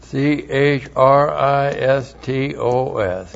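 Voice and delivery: slow, even letter-by-letter spelling of C H R I S T O S; dictating the letters C H R I S T O S for students to copy; spelled out letter by letter. Shown as a demonstration. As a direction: spell C H R I S T O S out to the class, one letter at a time. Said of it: "spelling the Greek word".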